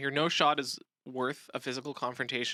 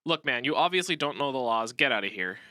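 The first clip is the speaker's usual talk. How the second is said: hostile, dismissive; 4 dB louder than usual. Shown as a demonstration. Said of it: "a bad response would be something like".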